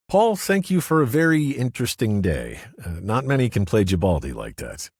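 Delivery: stern friendly warning; lawyer Kurgan's voice. Acted. Kurgan advises Paul to flee.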